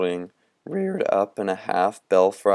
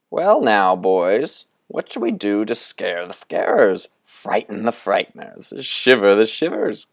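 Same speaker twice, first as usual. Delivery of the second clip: put-on lightly raised, theatrical old conjurer; Moundstrout's showman voice. Old conjurer teasing the boys from a cloud, theatrical. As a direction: relish the riddle like a sly ringmaster.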